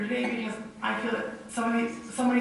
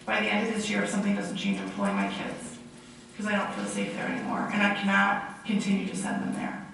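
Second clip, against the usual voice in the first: hoarse from a cold; rough, sick, gravelly voice. Real, not acted. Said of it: "so I apologize for my very, very gravelly voice".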